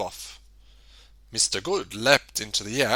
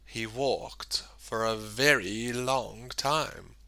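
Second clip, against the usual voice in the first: slow soft whisper; 2 semitones lower, 9 dB quieter, slower than usual. A narrator's reading. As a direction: hush it, drawn out slowly.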